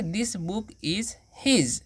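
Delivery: each word drawn out very slowly; slow, careful teacher dictation. Shown as a demonstration. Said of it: "तो क्या बोलेंगे?".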